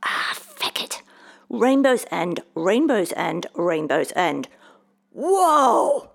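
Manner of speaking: loud, defiant chant ending in a high yell; shouting. A narrator's reading. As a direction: shout the words, then yell out as it takes effect. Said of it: "folded his arms and shouted".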